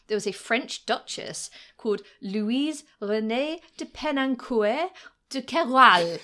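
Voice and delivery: slow, careful French pronunciation of de Penancourt de Keroualle; grand French name. Shown as a demonstration. Telling a co-host the duchess's full French name, slow and careful. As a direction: savour each syllable of de Penancourt de Keroualle. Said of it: "Just rolls off the tongue".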